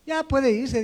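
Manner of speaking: a lightly voiced cranky old man brushing him off; a hint of a cascarrabias elder shooing him away; grumpy old boss dismissing the young man. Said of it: "Como era un viejito cascarrabias".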